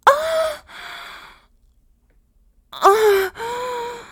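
high, loud cries peaking; climax cries. Acted. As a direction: let go completely at the peak.

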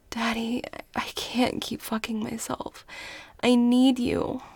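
usual speaking voice

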